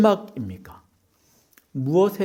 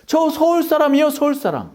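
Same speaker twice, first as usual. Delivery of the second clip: Busan dialect; 8 semitones higher, 3 dB louder than usual. Acted. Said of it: "누가 봐도 부산 말투인데".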